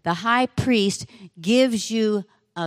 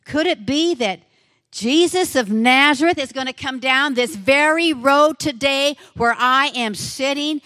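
excited wondering; 5 semitones higher than usual. Acted. Blind man's excited inner thoughts.

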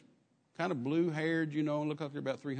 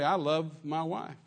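tender love; slower than usual. Shown as a demonstration. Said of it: "You can use the same word".

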